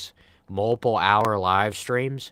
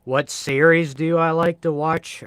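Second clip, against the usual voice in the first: chat question voice; 8 semitones higher, 7 dB louder than usual. Pretend. Reading a chat question aloud.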